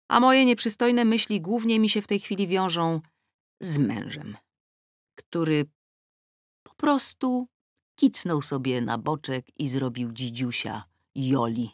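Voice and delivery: ordinary delivery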